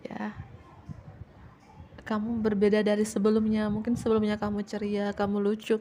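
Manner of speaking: ordinary talk, nothing marked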